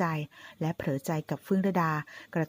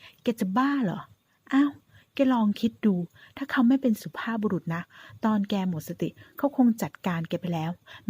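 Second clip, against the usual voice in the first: excited insisting; 3 semitones higher than usual. Acted. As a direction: push it like she can't believe her friend. Friend excitedly insists he loves her.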